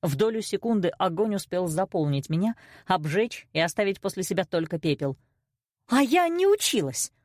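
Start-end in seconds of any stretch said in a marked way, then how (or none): 5.9-7.1 high, indignant retort; flaring up. A narrator's reading. Daughter protests she did study, flaring up. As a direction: fire it back at a high pitch. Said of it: "вспыхнула я, словно спичка".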